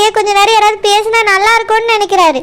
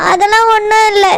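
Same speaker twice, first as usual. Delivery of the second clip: denying it through tears; tearful. Acted. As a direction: brush off concern while crying a little. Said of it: "எதுக்கு அழுவுறா?".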